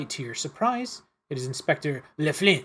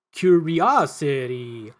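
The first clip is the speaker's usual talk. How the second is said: lightly voiced menace; 6 dB louder, much slower than usual. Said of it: "he threatens".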